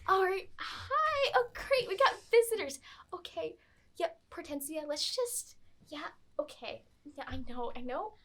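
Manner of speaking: put-on lightly high valley girl nun. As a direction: greet visitors with forced cheer. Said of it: "She's like".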